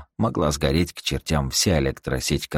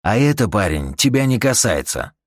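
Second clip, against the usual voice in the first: firm, higher-pitched put-down; curt rebuff; 5 semitones higher, 3 dB louder than usual. Acted. Eugene rebuffing the nosy engineer, curt. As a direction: shut the question down firmly. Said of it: "отрезал Юджин".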